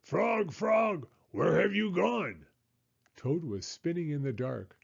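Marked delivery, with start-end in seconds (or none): 0.0-2.4 high, worried calling of his name; desperate calling. Acted. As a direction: call for a friend who's gone. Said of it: "screamed Toad".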